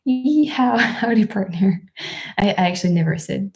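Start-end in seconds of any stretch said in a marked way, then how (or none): 0.0-1.8 lightly hammed-up cowboy call; playful mock-American yee-haw, laughing; American cowboy greeting. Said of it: "now you're American, you say".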